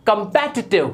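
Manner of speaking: कॉम्पिटिटिव as "kum-PET-i-tiv"; stressed "PET" in कॉम्पिटिटिव; correct pronunciation. Shown as a demonstration. Teacher models for learners, कॉम्पिटिटिव said "kum-pet-i-tiv". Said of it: "जबकि ये होता है".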